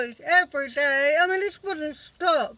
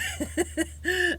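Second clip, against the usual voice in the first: tearful laugh; 5 dB quieter than usual. Real, not acted. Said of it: "oh, I shouldn't laugh".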